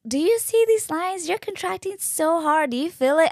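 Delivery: high-pitched, excited nurse impression; amazed nurse. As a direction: imitate a nurse astonished at the monitor. Nurse amazed at contraction readings.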